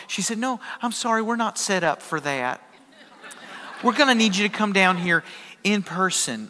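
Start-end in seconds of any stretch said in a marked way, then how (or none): 0.4-5.2 soft, apologetic Arkansas gal; a hint of sweet Arkansas receptionist; Arkansas accent. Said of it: "sweet little gal with an Arkansas accent". 5.6-6.5 lightly voiced Arkansas gal, matter-of-fact; Arkansas accent. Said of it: "sweet little gal with an Arkansas accent".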